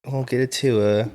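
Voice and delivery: slow, lightly voiced South African accent; a hint of a South African accent. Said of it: "That wasn't a South African accent".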